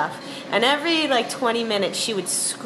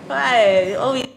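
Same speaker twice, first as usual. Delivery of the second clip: a hint of the grandmother's voice; starting into the impression; Russian Jewish accent; 3 semitones higher, 4 dB louder, slower than usual. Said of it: "she would always kind of talk like this".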